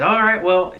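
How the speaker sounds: a hint of a thick-accented father; Barry. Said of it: "thick accent".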